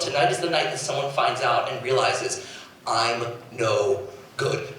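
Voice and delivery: low, soft self-doubting murmur; quietly dreading being found out; her inner doubt. Retold or imitated. A singer whispering her fear to herself. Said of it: "she always told herself".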